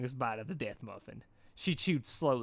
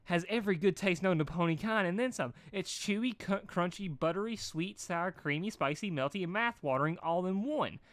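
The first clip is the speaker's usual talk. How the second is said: gushing praise; 6 semitones higher than usual. A narrator's reading. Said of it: "her heart leaping in utter happiness".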